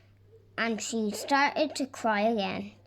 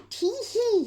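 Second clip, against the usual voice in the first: high, louder gleeful chuckle; chuckling tee hee; 12 semitones higher, 7 dB louder than usual. A narrator's reading. Mister Happy chuckling to himself over his plan, high and gleeful. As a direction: giggle it out with glee to yourself. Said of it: "he chuckled to himself".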